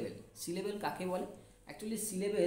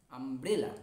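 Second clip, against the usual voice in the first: আমব্রেলা drawn out as আম, ব্রে, লা; broken into syllables; 5 semitones lower, much slower than usual. Shown as a demonstration. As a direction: sound out আমব্রেলা in three parts for learners. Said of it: "এই যে আমব্রেলাটাকে ভেঙে".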